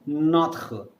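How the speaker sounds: Notre with throaty French R. Shown as a demonstration. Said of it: "Wherever you find R in French, simply say H sound".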